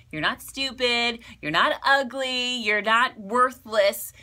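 firm, slowing on "You're not worthless"; stress on not. Acted. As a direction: lean on each "not", drawing out the last line. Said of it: "affirming the listener".

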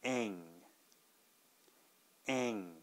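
"Ang" said slowly and clearly; model sound. Shown as a demonstration. Teacher repeats "Ang" for learners to copy. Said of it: "please listen one more time".

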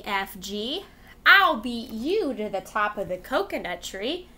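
lively sing-song read-aloud voice; reading to children. Acted. Teacher reading a rhyme book to kids, lively and sing-song. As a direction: read it out like a storyteller for little kids.

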